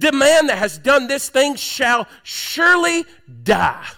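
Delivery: a hint of a king's fury; mock wrath. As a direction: let David's anger ring out. Reading David's angry vow.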